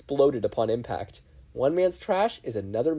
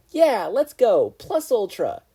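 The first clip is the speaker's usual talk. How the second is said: slow, very loud high shout; battle cry; 11 semitones higher, 10 dB louder, slower than usual. Acted. Ochako shouting the school motto, battle cry. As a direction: roar it with your fist in the air.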